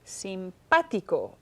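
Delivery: "simpático" very slow, stretched onto PA; stress on PA. Shown as a demonstration. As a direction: draw out sim-PA-ti-co to show the stress. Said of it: "I hear stress, pa".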